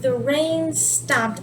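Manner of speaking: "rain" drawn out before "stopped"; stress on rain. Shown as a demonstration. Teacher marking the rain as topic, "rain" stretched. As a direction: slowly, dwell on "rain". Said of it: "emphasizing on the rain".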